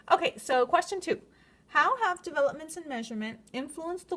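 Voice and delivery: lisping through new braces. Real, not acted. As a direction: speak with a slight braces lisp. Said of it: "my lisp".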